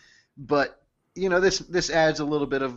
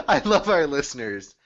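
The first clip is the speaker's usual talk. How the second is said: burping through the line; burping the words; 3 semitones higher, 3 dB louder than usual. Real, not acted. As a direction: talk through a burp. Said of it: "I'm so sorry to burp during this comment".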